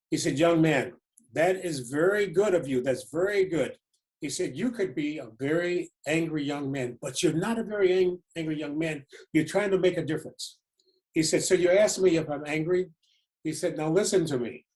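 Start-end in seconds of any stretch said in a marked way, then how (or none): 0.4-3.8 emphatic South African statesman, rolling cadence; stately accented praise, swelling on key words; Nelson Mandela impression. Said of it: "just imagine his accent". 4.6-10.6 put-on lightly accented South African statesman; hint of an elder leader's cadence; Nelson Mandela impression. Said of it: "just imagine his accent". 11.4-12.9 Nelson Mandela impression. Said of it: "just imagine his accent". 13.8-14.7 Nelson Mandela impression. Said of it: "just imagine his accent".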